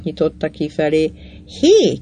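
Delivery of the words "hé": short, higher-pitched narrated shout; a restrained storyteller's shout; calling after someone. A narrator's reading. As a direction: call "hey" after someone leaving. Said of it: "kiabáltam utána".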